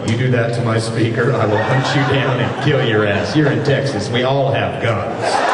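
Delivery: threatening sound guy. Retold or imitated. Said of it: "The sound dude is just looking at me going".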